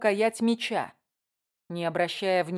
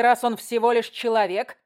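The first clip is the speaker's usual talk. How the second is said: louder, icy scornful prince; cold voice; 4 semitones higher, 6 dB louder than usual. Acted. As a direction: sneer the word human coldly. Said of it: "Голос Кирана звучал холодно".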